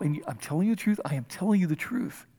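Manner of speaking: soft, weighted repeat on telling; solemn emphasis. Shown as a demonstration. Jesus stopping everything to teach Nicodemus, hushed and firm. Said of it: "Okay, everything stop".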